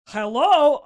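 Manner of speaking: mock stepmother with a Greek accent. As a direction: slip into a Greek accent for a greeting. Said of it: "I don't know why I went Greek there".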